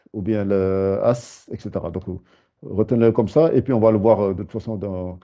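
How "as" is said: "as" slow, with a long s; isolated first syllable. Shown as a demonstration. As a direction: stretch the s that closes "as". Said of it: "ça rajoute toujours".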